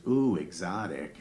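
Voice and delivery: drawn-out, slow mock swoon; impressed audience lady. Front-row lady hearing wife's Italian, mock impressed. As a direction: stretch it out, imitating an intrigued onlooker. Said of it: "some lady in the front row goes".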